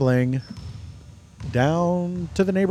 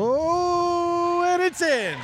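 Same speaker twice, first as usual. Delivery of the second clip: high, squealing excited call; excited basket call; 12 semitones higher, much slower than usual. Real, not acted. Commentator calling the basket, cry of excitement. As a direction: cry out as the shot drops.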